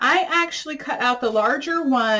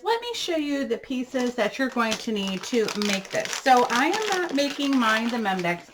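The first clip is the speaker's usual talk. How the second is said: talking over a crunching sound; crunching noise. Real, not acted. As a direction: speak with crunching going on. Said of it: "for the crunching noise".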